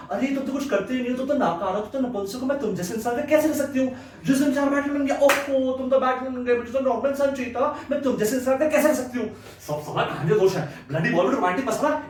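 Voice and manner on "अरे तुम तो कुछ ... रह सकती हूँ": slightly raised voice, mimicking a nagging woman; lightly mimicked girlfriend. Girlfriend putting down her man for not measuring up, lightly mimicked nagging. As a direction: imitate her running complaint. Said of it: "जब तक Batman वाले तो बोलती रही".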